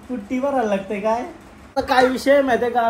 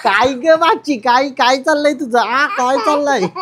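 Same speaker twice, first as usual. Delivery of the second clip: playing the aunt; 2 semitones higher, 3 dB louder than usual. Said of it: "मावशी बोलशील हा".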